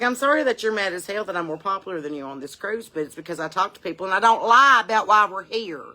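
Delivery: retold telling-off. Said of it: "I was like".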